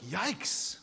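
rising, half-joking alarm; mock shock. Parents reacting to a child missing recess, mock alarm. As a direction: play up the fake concern. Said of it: "And we're like".

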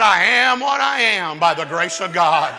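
a hint of a frail old preacher declaring; lightly voiced old preacher. Old preacher's opening line.

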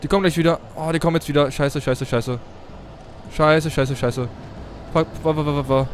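loud, frantic panic; panicking gamer. Real, not acted. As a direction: yell in rising panic. Chased by enemies, panics.

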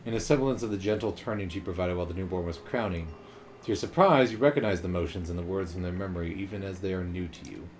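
measured storyteller narration; story narration. Acted. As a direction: read it like a storybook. Reads game narration aloud.

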